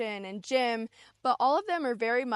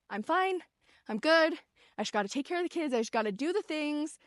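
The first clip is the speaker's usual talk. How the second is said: higher-pitched, imitated brush-off; mock breezy; 4 semitones higher than usual. Busy parent brushing off their feelings, mock breezy. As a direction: act out someone insisting all is okay.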